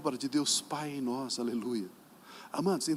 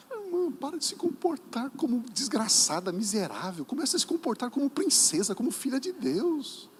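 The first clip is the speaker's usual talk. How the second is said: raised exhortation; 7 semitones higher than usual. Acted. Pastor exhorts the sister.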